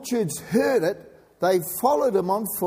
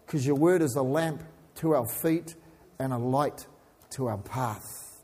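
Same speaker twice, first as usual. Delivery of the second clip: opening prayer. Acted.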